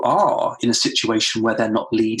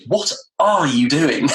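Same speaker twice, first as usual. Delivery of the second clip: slow "What are you doing?" leaning on "are"; "What ARE you doing?" drawn out, weight on "are"; intonation shift; 3 semitones higher, slower than usual. Shown as a demonstration. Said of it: "depending on where you put the intonation in".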